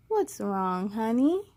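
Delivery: hint of a grandma; gentle grandma. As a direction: ask like a caring grandma. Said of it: "asks Grandma".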